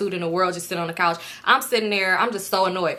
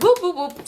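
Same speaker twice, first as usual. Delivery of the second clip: three quick high whoops; playful sound-effect whoops; imitated whooping; 6 semitones higher than usual. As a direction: whoop like a cartoon getaway. Imitated noise of rushing out.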